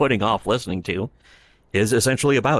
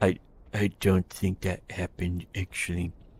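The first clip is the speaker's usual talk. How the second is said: soft, meek, defeated voice, quiet; 7 dB quieter than usual. Retelling an argument on stream, imitating Rekieta's defeated voice. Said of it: "Rekieta's completely embarrassingly defeated faggy beta bitch voice".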